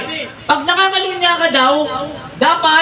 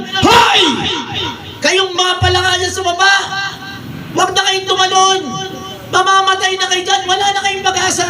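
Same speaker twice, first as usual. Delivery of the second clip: jeering crowd shouting from above; shouting frogs; 3 semitones higher than usual. Acted. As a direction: yell down at the frogs below.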